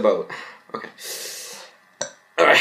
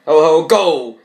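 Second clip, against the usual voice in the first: Santa shout; 5 semitones higher, 6 dB louder, slower than usual. Acted.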